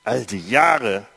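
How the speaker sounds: a touch of resentment, pushed out harder; elder son bitterly reproaching his father, mildly heated. Acted. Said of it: "entgegnete ihm bitter".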